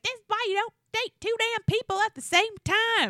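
high, put-on exasperated rant; mock-fed-up girl venting; frustrated Hannah. Hannah complaining about dating two men, in a high mock exasperation. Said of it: "She's like".

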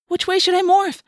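high, loud wail; panicked wail. A narrator's reading. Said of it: "Cassie wailed".

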